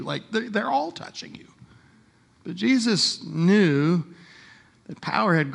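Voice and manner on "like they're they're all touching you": soft whispered aside. Real, not acted. Preacher pointing out the crowd to the congregation, whispered aside. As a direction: let it drop to a whisper.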